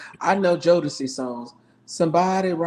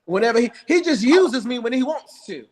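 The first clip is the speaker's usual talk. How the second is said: laughing; 7 semitones higher, 3 dB louder than usual. Real, not acted. Repeats joke laughing.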